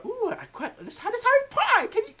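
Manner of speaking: high, excited hint with loaded pauses; nudge-nudge hinting, laid on thick; hinting for a present. Retold or imitated. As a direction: drop an unsubtle birthday hint. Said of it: "I kept telling her".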